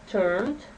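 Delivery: "turned" with a voiced d at the end; "turned", with the d hummed in the throat; model word. Shown as a demonstration. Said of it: "So we say turned".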